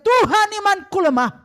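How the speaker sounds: loud pleading cry. Shown as a demonstration. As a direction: cry it out to God. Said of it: "Justru engkau berteriak".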